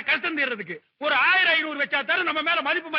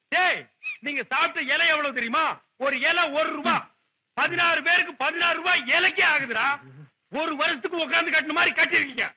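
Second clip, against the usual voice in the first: mildly raised, indignant telling-off; loud scolding. Acted. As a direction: berate a cheapskate guest. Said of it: "சத்தம் போட்டு பேசாதீங்க".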